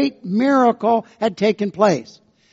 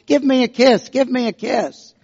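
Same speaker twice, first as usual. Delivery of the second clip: a lightly higher, louder squawk of a pet parrot; little parrot voice; 3 semitones higher, 3 dB louder than usual. Retold or imitated. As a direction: chirp it out like a small parrot, a touch louder. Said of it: "this little voice comes out of the closet".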